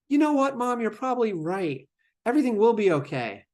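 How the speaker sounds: sarcastic imitation of a child agreeing with Mom. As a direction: fake the child giving in, sarcastically. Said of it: "that was a little bit of sarcasm".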